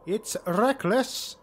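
slow, grim warning; grim retainer. Acted. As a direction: drag it out, disapproving. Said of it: "The tall Druki stood by his lord's side".

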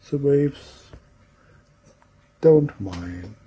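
unhurried meditation voice with long pauses; guided imagery. Real, not acted. Trainer guiding a group into relaxing, in a calm imagery voice. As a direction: lead listeners gently through the scene, leaving space between phrases.

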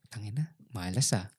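put-on a disappointed kid muttering to himself, low and soft; muttered curse. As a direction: curse quietly to yourself.

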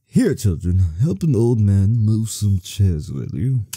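lightly voiced old man; slow, kindly old man asking. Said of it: "That's that old man voice".

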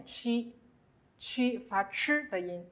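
chi with the ch of Mandarin 吃, then i; ch sound. Shown as a demonstration. Teacher showing the special Italian sound, chi said as "chee". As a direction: say chi slowly as "chee", not "kee".

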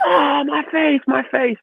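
high, whiny cry of pain; mock wailing. Punched kid wailing to everyone, mock pained cry.

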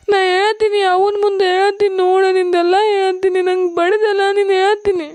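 whiny, crying threat to tell; tearful threat. Acted. Younger sister threatens to tell on big sister, tearful. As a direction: threaten to tattle through tears. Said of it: "ಅಳುದು, ಬರೀ ಅಳುದು".

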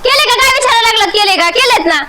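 wife's cross outburst; indignant yelling. Acted. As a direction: throw his question back at him indignantly. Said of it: "तुला मध्ये ओरडू नको".

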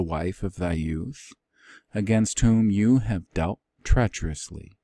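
measured, elevated Bible reading voice; scripture reading. Acted. Teacher reads the old translation aloud to the class, in a formal reading voice. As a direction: read "Yet you say" like solemn old scripture.

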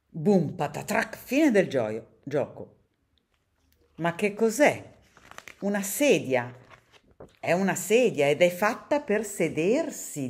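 lively read-aloud for children, characters voiced; storybook reading. A narrator's reading. Reader reading a picture book to children, lively storytelling. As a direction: read the tale to kids with bright expression.

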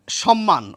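সম্মান said as "shom-man"; standard pronunciation. Shown as a demonstration. Teacher giving viewers the standard form, সম্মান as "shom-man". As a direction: say সম্মান with sh and doubled m. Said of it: "প্রমিত উচ্চারণ".

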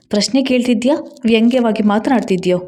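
angry question. Acted. Husband angrily challenging his wife's tone. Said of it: "Suresh ಕೋಪದಿಂದ ಕೇಳಿದ".

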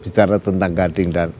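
choked up, straining through tears; fighting back tears while speaking; holding back sobs. Real, not acted. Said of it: "saya emosional". (menahan isak tangis)

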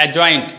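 "एडजॉइंट" said a-joint, without D; silent D. Shown as a demonstration. Teacher repeats the correct form, "एडजॉइंट" as a-joint. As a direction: leave the D out of "एडजॉइंट". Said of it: "इसको एडजॉइंट बोलेंगे".

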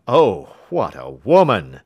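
loud astonished exclamation; loud cry. Acted. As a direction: burst out in loud wonder. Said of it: "cried the King of Bohemia".

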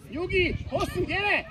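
high-pitched sideline shout; calling out. Real, not acted. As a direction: call across to a player in play. Coach calling out during play. (magas hangú bekiabálás)

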